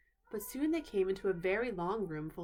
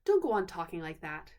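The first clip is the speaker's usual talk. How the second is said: bad-tempered; 3 semitones lower, 5 dB louder than usual. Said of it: "which always made him bad-tempered".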